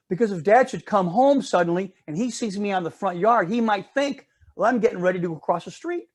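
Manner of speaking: a hint of a nervous little girl; worried little girl. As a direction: play the good daughter fretting to her sister. Sandra voiced in the story.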